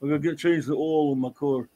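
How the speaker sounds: oil said as "awl", glide dropped; local pronunciation. Retold or imitated. Imitating locals about the car, local pronunciation. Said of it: "They say oil".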